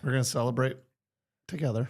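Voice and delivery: hoarse from a lost voice; sultry voice. Real, not acted. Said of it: "celebrate his sultry voice".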